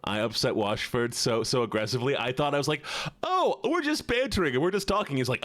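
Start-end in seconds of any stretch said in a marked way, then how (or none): 3.2-5.2 high-pitched imitation of pleading innocence; retold protest. Streamer replays protesting to upset Washford, retold pleading. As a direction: plead it was only banter, acted out.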